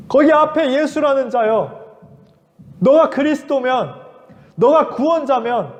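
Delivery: a criminal shouting a dare from his cross; mild mock shout of a condemned man; crying out. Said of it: "그렇게 외쳤어요".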